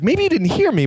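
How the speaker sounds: high-pitched, put-upon retold retort; mock-patient, high-voiced protest; exasperated. Acts out annoyed reply.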